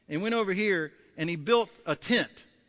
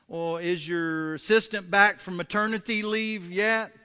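wife; 3 semitones higher, 4 dB louder than usual. Acted. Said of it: "she's so frustrated with this".

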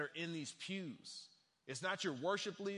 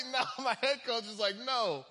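high, loud comic dismay; incredulous protest; 7 semitones higher, 8 dB louder than usual. Retold or imitated. Benched player recounting the head coach's verdict, incredulous. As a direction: keep the mock outrage pitched way up. Still acting out shocked protest.

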